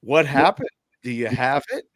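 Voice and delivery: half-hearted retold yell; retold yelling upstairs. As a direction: imitate a wife calling upstairs. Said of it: "She's yelling upstairs".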